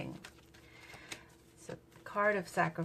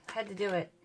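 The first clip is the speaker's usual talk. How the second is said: ordinary talk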